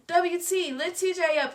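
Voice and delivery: high, loud call for help; Blinky screams for help after the bottle falls; child's scream. A narrator's reading. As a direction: shout to lift him up. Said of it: "And Blinky scream".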